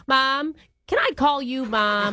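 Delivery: hammed-up Long Island-Boston-Minnesota mom accent; old Jewish mom accent jumble; horrible jumbled accent. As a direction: play a chatty older girlfriend in a bad regional accent mash-up. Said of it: "doing a horrible accent".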